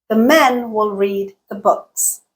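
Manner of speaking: even beats on MEN, READ, BOOKS, "will" and "the" squeezed between; stress-timed rhythm. Shown as a demonstration. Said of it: "Listen to the duration of each utterance".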